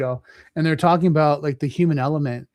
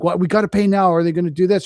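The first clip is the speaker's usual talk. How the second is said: mock panic; 3 semitones higher, 5 dB louder, faster than usual. Retold panicked customer.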